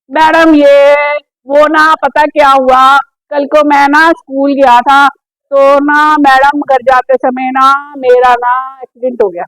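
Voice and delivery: lightly voiced child reciting haltingly; a hint of a slow, rambling pupil; fidgety schoolchild. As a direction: drag out each "ना" like a nervous pupil. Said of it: "कई बच्चे क्या होते हैं, उनको हिलने की आदत होती है".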